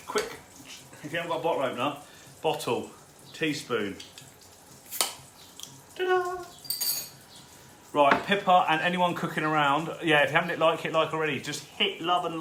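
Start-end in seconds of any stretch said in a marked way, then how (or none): 6.0-6.4 high triumphant flourish; proud showman's ta-da. Real, not acted. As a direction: sing it like a magic reveal. Shows bottle opened with spoon.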